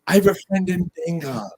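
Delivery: lightly imitated Irish bartender; Irish accent. Telling friends how the Irish bartender talked, imitated Irish accent. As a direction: put on a bit of an Irish lilt. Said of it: "the Irish accent's a good accent".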